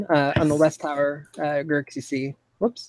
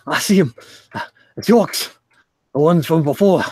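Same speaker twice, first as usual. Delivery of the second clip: urgent report; 2 semitones higher, 6 dB louder than usual. Acted. Lookout reporting the orcs.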